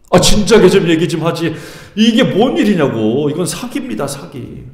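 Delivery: mock exasperated protest; imitating Jacob's complaint. Preacher voicing Jacob's complaint to his uncle, mildly aggrieved. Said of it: "제가 야곱이라고 생각하면 아마 그랬을 거예요".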